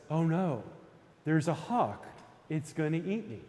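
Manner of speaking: lightly voiced anxious rabbit; a mild first worry, only slightly acted; worried rabbit. Storyteller voices the rabbit spotting a hawk, mildly worried. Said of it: "And the rabbit says".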